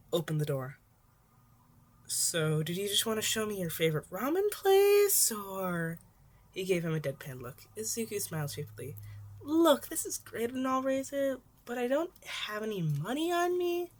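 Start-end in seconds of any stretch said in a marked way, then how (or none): 2.1-6.0 put-on higher, brighter-pitched teen boy voice; a teen fishing for an answer; Izuku, lightly voiced young hero. 9.4-13.9 put-on higher teen voice, a bit louder; nervously turning down a kind offer; higher, embarrassed teen; Izuku, sheepish.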